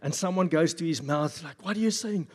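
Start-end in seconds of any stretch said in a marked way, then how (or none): 1.6-2.3 raised-pitch, loud mafia henchman; hammed-up movie mobster question. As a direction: play a henchman straining to hear. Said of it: "I'm gonna do the mafia voice".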